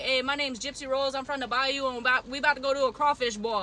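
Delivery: laid-back, badly faked Creole twang; fake Creole accent. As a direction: imitate a put-on Louisiana Creole accent. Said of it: "Fake ass Creole accent".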